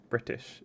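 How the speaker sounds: "British" with an actual T sound; "British" with the T fully pronounced, neither D nor dropped; German-style hard T. Shown as a demonstration. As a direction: say "British" with a clear T, as German learners do. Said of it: "if a German person says British".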